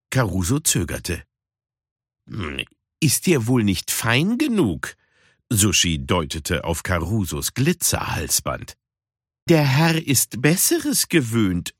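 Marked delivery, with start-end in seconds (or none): 2.3-11.7 mock the fancy gentleman. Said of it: "spottete sie". (spöttisch, langsam)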